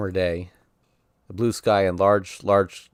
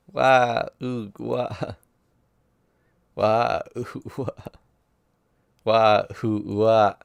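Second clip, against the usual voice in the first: put-on child's wailing; 2 semitones higher, much slower than usual. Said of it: "is brimming forth with tears".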